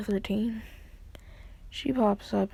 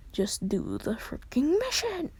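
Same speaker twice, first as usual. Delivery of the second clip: rising sharply high on the last words; pushy, mock-impatient order; exasperated urging; 4 semitones higher than usual. She urges him to do the mission, exasperated. Character snaps at reluctant assassin.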